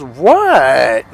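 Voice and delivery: loud, drawn-out "what" in imitation; uncomprehending. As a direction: act out a baffled retort. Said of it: "he literally didn't understand".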